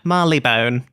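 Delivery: Marylebone as MAR-lee-bone; personal pronunciation. Shown as a demonstration. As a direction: end Marylebone on a full, long "bone". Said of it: "I always said it Marylebone".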